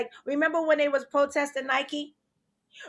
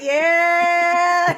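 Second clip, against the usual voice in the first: imitating Maria; 3 semitones higher, 8 dB louder than usual. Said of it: "Maria was like".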